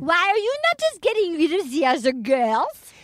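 hammed-up French Canadian accent; plaintive mock French accent; Vanessa. Podcaster playing a hurt bachelor contestant in a French Canadian accent. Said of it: "really sounded like Vanessa".

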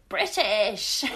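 startled "British" popping out; blurted "British". Retold or imitated. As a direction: blurt it out in panic. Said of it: "And you went".

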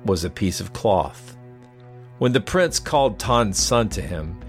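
measured storyteller's read over music; story narration. A narrator's reading.

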